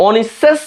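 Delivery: অনিঃশেষ said slowly as 'o-nis-ses'; 's' sound in অনিঃশেষ. Shown as a demonstration. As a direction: say অনিঃশেষ with s in place of every sh. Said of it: "তিনটাই দন্ত স দিতাম".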